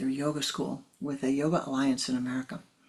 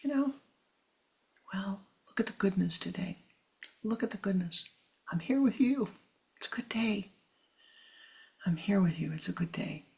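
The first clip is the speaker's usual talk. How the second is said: gentle reassurance; 3 semitones higher than usual. Shown as a demonstration. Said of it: "but to say".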